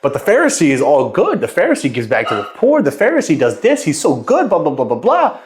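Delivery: lightly mimicked gushing crowd, pitch climbing high; admiring crowd. Townspeople talking up the Pharisee who gives to the poor, lightly mimicked admiration. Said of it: "Everyone was like".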